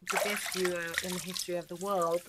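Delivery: hushed, reverent repeat; soft dreamy echo. Real, not acted. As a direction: savour each word softly. Quoting the line dreamily.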